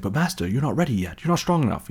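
rising mock plea to a master; hammed-up servile protest; pleading servant. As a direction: plead like a worried minion.

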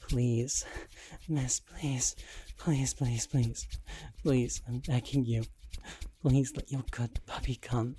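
begging. Acted. Begging to be allowed to come.

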